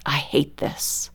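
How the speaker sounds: low, slow, under the breath; soft, weary private thought; internal self-talk. Retold or imitated. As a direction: mutter it to yourself, drawn out. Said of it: "my internal conversation with myself is".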